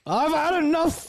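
put-on a lightly held Australian accent; imitating Australian accent. Co-host copies the vlogger's Australian accent line. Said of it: "I've had enough of all this bad weather".

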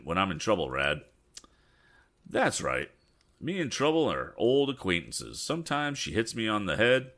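lightly voiced talkative country handyman; lively, rambling storybook dialogue with a folksy lilt; a hint of an apologetic old-time helper; folksy Eradicate character.

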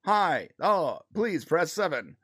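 flat automated phone-menu voice; robot voice, lightly done; robotic voice. Retold or imitated. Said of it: "it's a robotic voice for the characters".

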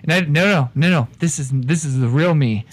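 blustering Irish con man; Irish accent. Acted. Con man insisting to the bartender, in an Irish accent. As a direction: lay on the Irish brogue, talking him down.

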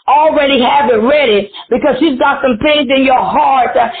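urgent, rolling preacher cadence; prophesy over them with punched phrases; fervent prophecy. Real, not acted.

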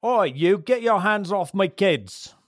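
high, loud shout of a father; angry shout. Acted. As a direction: shout it to drive her off. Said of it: "he will get up and turn around and shout at Agnes".

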